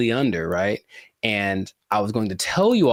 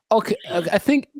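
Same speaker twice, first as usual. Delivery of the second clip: flustered whisper; 9 semitones higher, faster than usual. Real, not acted.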